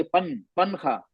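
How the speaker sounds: पनखा slowed down, full n touched; tongue-touch demo; slow wrong version. Shown as a demonstration. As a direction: say पन then पनखा slowly. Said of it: "अब पनखा बोलिए".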